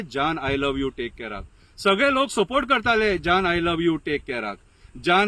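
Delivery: measured declamation of a scathing poem; accusing political verse, rhythmically declaimed; poem recitation. Acted. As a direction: recite it line by line, repeating for emphasis. Recites own satirical poem.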